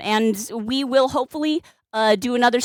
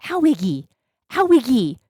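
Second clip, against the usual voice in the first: in pain. Real, not acted. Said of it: "clawed it right in there".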